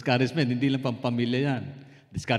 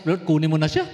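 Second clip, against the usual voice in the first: mock desperate prayer; 4 semitones higher, 6 dB louder than usual. Joking prayer to God.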